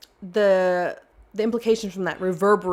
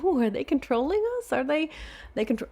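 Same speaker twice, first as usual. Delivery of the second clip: mock paranoid; 5 semitones higher, 4 dB quieter than usual. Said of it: "I'm thinking".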